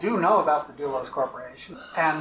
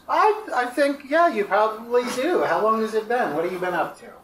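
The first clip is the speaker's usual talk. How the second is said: higher, louder friendly NPC; upbeat NPC voice; 6 semitones higher, 3 dB louder than usual. Acted. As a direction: play the chummy stranger.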